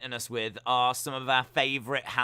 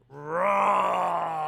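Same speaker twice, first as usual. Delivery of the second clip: shout; 2 semitones higher, 4 dB louder than usual. Acted. Shouting the show name.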